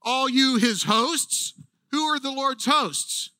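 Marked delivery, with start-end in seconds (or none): 0.0-1.5 fired-up call. Retold or imitated. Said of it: "He says".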